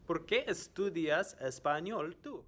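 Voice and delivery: "¿Por qué estudias español tú?" high and joined up; high, clear teacher question; quiz question in one go. Shown as a demonstration. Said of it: "I am going to ask some questions".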